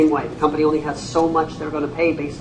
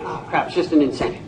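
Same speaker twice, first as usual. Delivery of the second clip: mock dismissive; 2 semitones lower, 5 dB quieter, faster than usual. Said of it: "If you hear us say".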